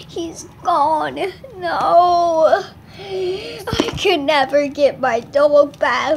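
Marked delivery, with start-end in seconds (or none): 1.6-6.2 pretend crying. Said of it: "I'm gonna cry".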